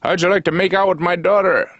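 high, sing-song small-town welcome; high cheerful hick voice; friendly local guy. Retold or imitated. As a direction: greet like an overly friendly North Dakotan. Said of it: "who'd be like".

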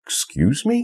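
high, incredulous "Excuse me?" rising sharply on "me"; surprised. Acted. Friend hearing news of a sudden wedding: shocked disbelief. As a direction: act shocked, voice jumping up. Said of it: "takie zdziwienie".

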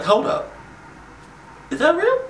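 high, loud mock double take; mock disbelief. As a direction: voice his stunned reaction, high-pitched and loud. Acting out the baby's shocked reaction.

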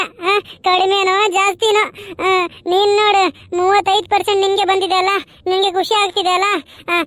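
lightly voiced anxious student; nervous boy. Ramesh nervous checking result.

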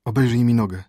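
loud, lightly moaning request; moaned plea. A narrator's reading. Stricken prince to his doctor, moaning plea. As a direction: groan out an urgent order. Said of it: "jęknął Horus".

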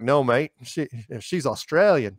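a light, bad Australian accent; hint of an Australian, half-hearted; terrible Australian accent. At the shoot, a crew member answering in a bad Australian accent. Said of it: "it's a terrible accent".

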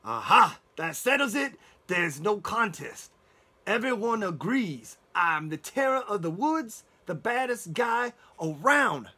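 a loud, slow, self-satisfied wolf proclaiming his terror; howling wolf. Acted. Wolf boasting after the dwarfs agree, loud and proud. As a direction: bellow it out, pleased with himself. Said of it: "howled the wolf".

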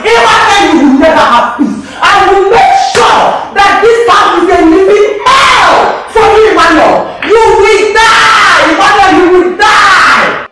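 raging, shouting curses at him; furious cursing. Acted. Woman cursing her enemy Emmanuel, furious shouting. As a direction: spit every curse at the man who beat her.

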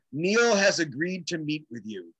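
slow, measured, portentous announcement; Paul Siegel. Retold or imitated. Friend announcing that the idol will meet him, solemnly slow. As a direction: imitate a friend delivering momentous news deliberately. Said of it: "that's how he said it".

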